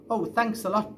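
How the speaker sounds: put-on a boy sarcastically scolding his barking dog; sarcastic thanks. James scolds Bertie ironically.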